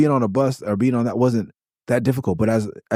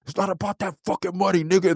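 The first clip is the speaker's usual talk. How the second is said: imitating Aesop; 6 semitones higher than usual. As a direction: mimic him dragging the words. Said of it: "that nigga said".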